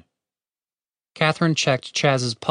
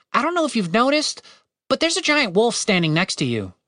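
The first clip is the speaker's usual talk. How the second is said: lightly voiced nervous man, higher; Tim, nervous; 9 semitones higher than usual. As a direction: point out the danger warily. Tim's voice.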